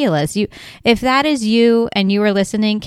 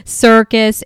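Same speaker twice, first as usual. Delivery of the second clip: 1 mock panic. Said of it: "you're like".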